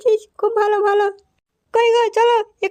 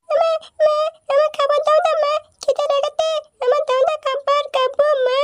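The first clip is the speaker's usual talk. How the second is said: put-on whiny child voice; 4 semitones higher than usual. Child begging mother for food.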